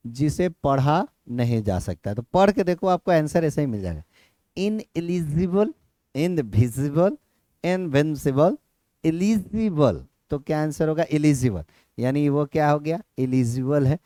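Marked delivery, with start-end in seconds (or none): 4.6-10.1 each option said slowly and separately; slow option list. Shown as a demonstration. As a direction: read out the answer choices slowly. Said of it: "options listed". (विकल्प धीरे-धीरे पढ़ना)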